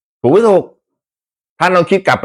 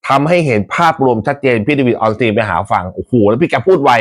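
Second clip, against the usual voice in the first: normal talking voice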